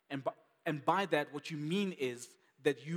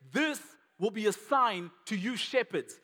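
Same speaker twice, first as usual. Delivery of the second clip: higher pitch, punch "this" and "you"; stress on "this" and "you"; 6 semitones higher, 5 dB louder than usual. Shown as a demonstration. Angel addressing the shepherds, emphatic on "this" and "you". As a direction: press "this" and "you" home emphatically. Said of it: "let's put emphasis on two words, "this" and "you".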